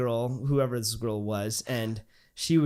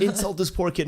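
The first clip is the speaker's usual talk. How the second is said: raised, indignant mock scolding; retold telling-off; 5 semitones higher than usual. Girl defending him to his friend, acted scolding. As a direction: imitate an outraged defender. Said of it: "starts just yelling at my friend".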